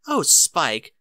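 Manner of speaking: laughing. Acted. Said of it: "Rarity guffawed raucously".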